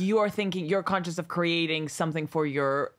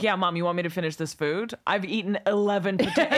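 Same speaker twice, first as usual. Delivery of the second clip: mock yelling at mum; 3 semitones higher than usual.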